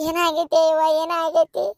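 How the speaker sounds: keen over a missing daughter; wailing grief. Acted. Mother wails over missing daughter.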